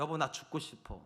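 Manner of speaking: softly voiced, worn-out wife; subdued, defeated murmur; weary despair. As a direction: quietly retell a spouse's despair. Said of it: "제 아내가 굉장히 많이 힘들었어요".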